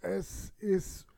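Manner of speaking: slow dry whisper. Real, not acted. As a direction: whisper it, unconvinced. Dry answer about play park. (trocken geflüstert)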